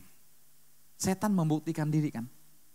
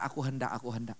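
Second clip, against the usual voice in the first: Lucifer's boast; 4 semitones lower, 4 dB quieter than usual. Retold or imitated. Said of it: "Makanya Lucifer berkata".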